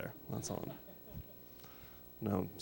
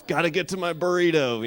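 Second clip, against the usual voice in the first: mock old man; 6 semitones higher, 6 dB louder than usual.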